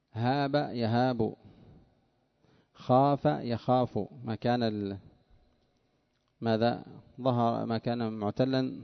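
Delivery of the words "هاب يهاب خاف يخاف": slow and drawn out; slow teaching. Shown as a demonstration. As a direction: spell each verb out slowly. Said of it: "مثل".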